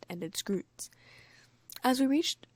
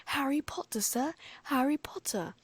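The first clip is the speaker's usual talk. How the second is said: excited shout; 7 semitones higher than usual. Acted. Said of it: "hugging him around the middle and shouting".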